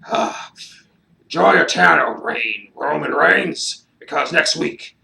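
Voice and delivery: loud, high, gloating boss voice; hammed-up smug chairman taunt; Vince impression. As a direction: lord it over Roman Reigns, mock Vince. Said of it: "and he's like".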